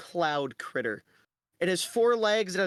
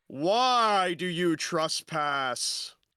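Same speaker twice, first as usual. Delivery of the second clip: echoing voice with drawn-out "why". Speaking in character, questioning the intruders, booming, echoing voice. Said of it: "you hear this booming, echoing voice".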